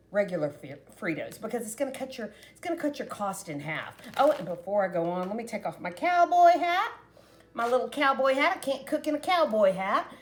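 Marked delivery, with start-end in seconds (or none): 5.3-10.1 cowboy-talk Southern twang; higher-pitched Southern cowboy talk; Southern accent. Real, not acted. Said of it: "why I talk Southern".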